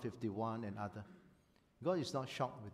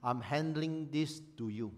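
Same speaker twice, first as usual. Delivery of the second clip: prayer aloud; 2 semitones higher, 4 dB louder, slower than usual. Shown as a demonstration. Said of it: "Say it out loud".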